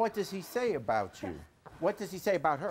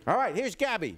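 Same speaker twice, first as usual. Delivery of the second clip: raised, swooping show-host introduction; announcing a guest; 4 semitones higher, 4 dB louder than usual. Real, not acted. Talk-show host bringing out a guest, announcing loudly. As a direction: call the guest out to the studio crowd.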